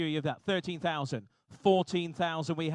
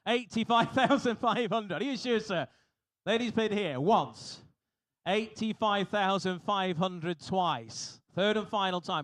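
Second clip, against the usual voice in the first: emphatic auction call; 3 semitones higher, slower than usual. Real, not acted. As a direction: lean hard on the bidder, drawing it out. Auctioneer pressing doubtful bidder.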